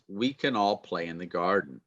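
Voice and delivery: "can" said lightly as "kun"; reduced can. Shown as a demonstration. Teacher repeating the example for students, reduced can. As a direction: pass quickly over "can", keep it unstressed. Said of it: "Can changes to kun".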